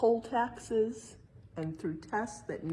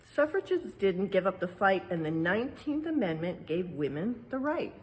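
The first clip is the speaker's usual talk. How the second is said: rhyming verse read aloud; 4 dB louder than usual. Acted. Parent reading the exhibit's rhyme to children, lilting read-aloud. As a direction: read the rhyme like a picture book to kids.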